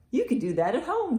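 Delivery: loud, lively picture-book read; reading to children. Acted. Librarian reads a bird book aloud to children, loud and lively. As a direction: read it out big for a room of kids.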